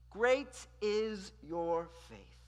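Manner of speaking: solemn praise. Acted.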